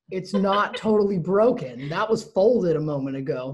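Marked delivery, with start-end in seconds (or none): 0.1-1.9 totally stretched slow and louder with a laugh; presenting for the camera. Shown as a demonstration. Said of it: "Excuse me, for those viewing at home".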